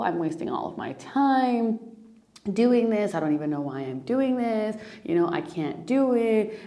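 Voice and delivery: mock despairing inner rant, pitch jumping up; acted self-berating, piling up complaints; self-critical spiral. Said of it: "let's go to the spiral here".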